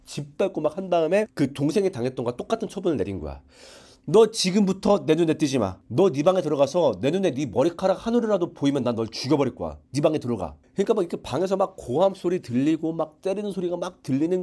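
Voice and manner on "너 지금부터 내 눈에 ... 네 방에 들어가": furious order. Retold or imitated. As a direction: lay down the banishment word by word. Enraged father banishes son.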